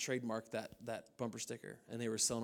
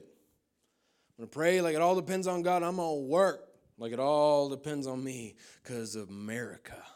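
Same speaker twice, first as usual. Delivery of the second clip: mock slogan voice; 3 semitones higher, 6 dB louder than usual. Mocking slogan-style theology.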